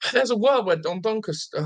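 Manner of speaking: stumbling over the words; tongue-tied. Real, not acted. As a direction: trip over the name. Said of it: "oh, I can't even speak now".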